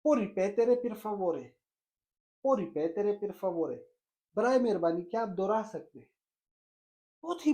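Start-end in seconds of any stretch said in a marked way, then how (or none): 0.1-1.4 slow, careful Italian phrase for learners; slow model phrase. Shown as a demonstration. Teacher modelling the Italian phrase, very slow and careful. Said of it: "आप उससे कहो". 2.5-3.8 slow, careful Italian phrase again; slow model phrase repeated. Shown as a demonstration. Teacher repeats the Italian phrase, very slow and careful. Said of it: "आप उससे कहो".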